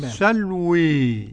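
"والسلوي" drawn out to a long ee-like e; imala, ending in e. Shown as a demonstration. Teacher shows Hamza's reading, "والسلوي" with full imala. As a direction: recite "والسلوي" slowly, final alif fully tilted to e. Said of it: "وخلف العاشر بالإمالة".

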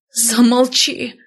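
high, slow, drawn-out cry; roaring. A narrator's reading. Shamed woman roaring at the healer to be silent. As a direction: hurl it out, pitched high. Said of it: "взревела я".

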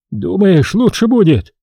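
high-pitched, hopeful query; eager question. A narrator's reading. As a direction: ask it back high and eagerly. Priest eagerly questions the advice back.

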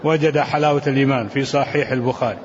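measured classical Arabic text reading; deliberate recitation of a commentary, phrase by phrase; formal read-aloud. Acted. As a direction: read the scholarly text out evenly. Reads the hadith text.

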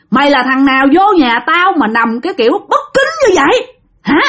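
mock scolding, pitch up at times; a retold ghost berating the intruder; imitating an angry ghost yelling. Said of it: "vừa la nha, vừa chửi".

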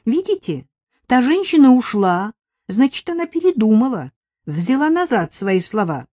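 whining. Acted. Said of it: "продолжала ныть Надежда".

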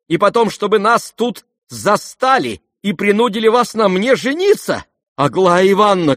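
very high, loud indignant tirade; outraged. A narrator's reading. Aglaya to the prince, outraged shout. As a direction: scold him in wounded fury.

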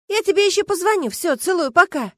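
high, quick farewell; hurried goodbye. Acted. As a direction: rush off the phone. Friend hurriedly hangs up.

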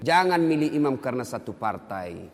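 usual speaking voice

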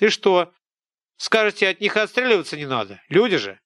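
high, loud village scold; an angry peasant woman tearing into a boy; scolding old woman. Acted. Woman retorts. (сварливая тётка, громко и высоко)

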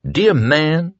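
high-voiced theatrical pirate; pirate villain. A narrator's reading. Pirate addresses the prisoner at the cell door, theatrical. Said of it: "the pirate said".

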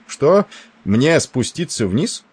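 surprised. A narrator's reading. Admiral startled by suggestion.

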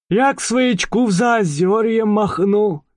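high dreamy little mouse. Acted. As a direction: daydream aloud as the mouse. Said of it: "размечтался мышь". (мечтательный голос мыши)

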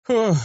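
high sigh of relief; exhaled "oh". A narrator's reading. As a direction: breathe out after a bad dream. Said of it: "выдохнул я". (облегчённый выдох)

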